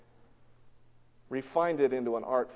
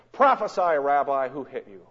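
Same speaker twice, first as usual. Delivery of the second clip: mocking taunt; 5 dB louder than usual. Soldiers mocking blindfolded Jesus.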